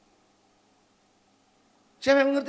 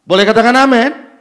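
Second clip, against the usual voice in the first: loud ringing call for amen; booming appeal to the crowd; preacher's call; 3 semitones lower, 14 dB louder than usual. Real, not acted. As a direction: rouse the congregation. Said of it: "calls the congregation".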